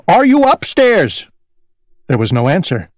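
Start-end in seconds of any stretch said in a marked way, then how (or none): 0.1-1.2 shouting. A narrator's reading. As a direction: shout it up to the top floor. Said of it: "he shouted".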